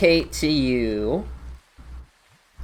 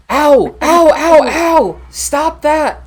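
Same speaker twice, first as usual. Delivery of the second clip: high, loud yelps of pain, then indignant; pained talking sword; 12 semitones higher, 8 dB louder, much slower than usual. Acted. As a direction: cry out like an indignant sword being whacked. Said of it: "you'll just hear coming from the sword".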